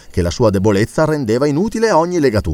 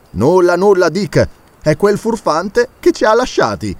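calm reply; 7 semitones higher than usual. Acted. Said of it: "rispose tranquillamente".

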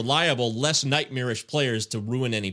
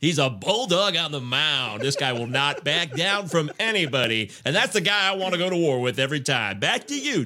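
booming sports announcer, pitched up. Pretend. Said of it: "I'm doing my announcer voice here".

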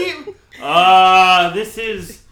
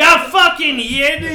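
mock bigot; 6 semitones higher, 9 dB louder, slower than usual. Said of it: "they'd be like".

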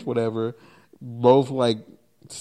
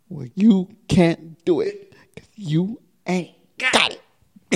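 whispered movie taunt; 6 semitones higher than usual. Retold or imitated.

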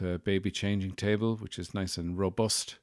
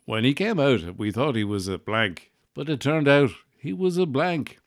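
higher, louder mock presenter delivery; Terry Wogan; 5 semitones higher, 5 dB louder than usual. Telling the baby-name reveal as a Terry Wogan impression. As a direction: swoop up high through the reveal. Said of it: "Terry Wogan there".

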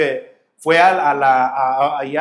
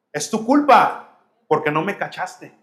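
accusing. Retold or imitated. Believer blames God.

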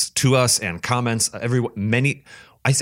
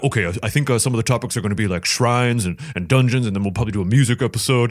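impression of Kate. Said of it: "that was my impression of you".

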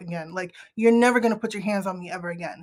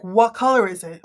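short and curt; 5 dB louder than usual. Retold or imitated. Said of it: "I'm being very short".

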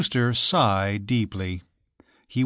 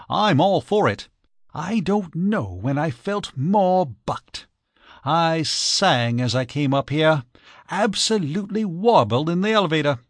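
bubbling delight; 4 semitones higher than usual. Acted. Archie gushing with joy.

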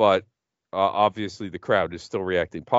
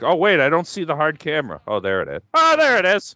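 mock Sid; 7 semitones higher, 4 dB louder than usual. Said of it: "turns like".

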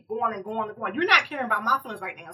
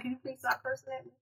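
calm, polite request; retelling a calm plea; 12 dB quieter than usual. Retold or imitated. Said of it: "All calm".

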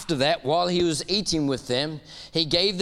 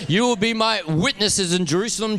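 shouted scripture; 3 semitones higher than usual. Real, not acted. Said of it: "Shout it at me".

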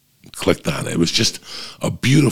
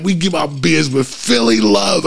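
high, louder hawker voice; Philly beer vendor; 8 semitones higher, 3 dB louder than usual. Retold or imitated. Imitating the vendor pushing cold beer with Philly love. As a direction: sell it like a smooth vendor. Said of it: "The guy was talking to me like that".

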